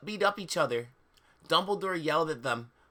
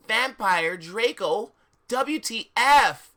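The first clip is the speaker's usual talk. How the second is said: surprised; 5 semitones higher, 7 dB louder, slower than usual. Acted. Narrator's astonished question.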